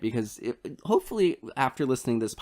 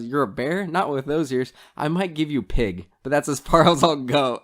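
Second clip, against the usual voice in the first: dismissive, a little louder, laughing at the end; snooty general; 3 semitones higher, 4 dB louder than usual. Retold or imitated. General sneers at servant's bear costume, dismissive. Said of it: "and he goes".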